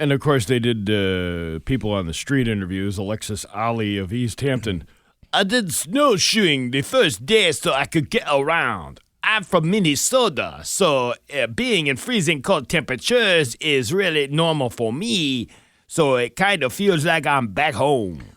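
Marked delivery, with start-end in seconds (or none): 5.3-18.1 pitched up high like a cartoon voice. Reading out a quote from a person interviewed on the street: Pepe Le Pew voice. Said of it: "Why does she sound like Pepe Le Pew?".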